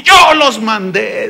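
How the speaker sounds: a touch of a pastor's grief, mildly voiced; grieving pastor. Pastor retelling how he sent the youth, slow and grieving. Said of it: "El pastor está casi llorando".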